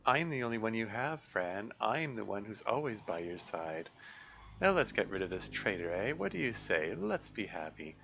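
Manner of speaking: lightly voiced sly tempter; coaxing sinister voice. Dark voice tempting the girl, sly coaxing. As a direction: coax her toward a cruel deed.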